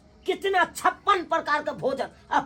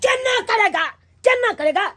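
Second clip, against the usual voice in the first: higher, indignant challenge; indignant retort; 4 semitones higher than usual. Acted. Guest challenges father-in-law's excuse of poverty, indignant. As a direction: throw the question back at him, affronted.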